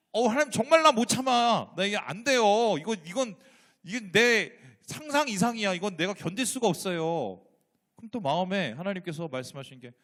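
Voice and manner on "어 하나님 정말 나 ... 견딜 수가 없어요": exasperated prayer. Retold or imitated. Retelling angry complaint to God.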